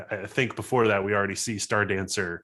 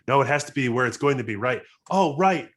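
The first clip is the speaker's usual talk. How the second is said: insistent, then higher sudden realization; fretting pilot; 4 semitones higher, 4 dB louder than usual. Acted. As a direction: argue with the readout, then catch on. Voices pilot fretting over calculations.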